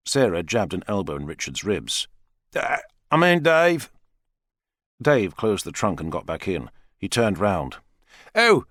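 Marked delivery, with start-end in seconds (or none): 2.6-3.9 higher, hesitant self-correction; American man correcting himself. A narrator's reading. Richard corrects himself after Sarah's elbow jab, hesitant. 8.3-8.6 sharp, high, louder startled oh; surprised gasp. A narrator's reading. Father sees his daughter's bruises, startled high oh. Dave reacts to Sarah's injuries.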